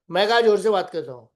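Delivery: defensive loud denial. Retold or imitated. Denies speaking loudly.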